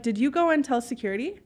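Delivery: polite question with a light lift at the end; friendly, unthreatening question; nice voice. Retold or imitated. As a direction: ask it nicely, tone rising. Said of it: "saying in a nice voice".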